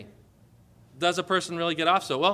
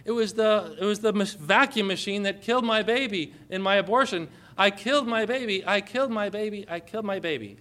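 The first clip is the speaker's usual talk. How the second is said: retold tearful confession; 3 semitones higher than usual. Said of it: "she burst into tears and says".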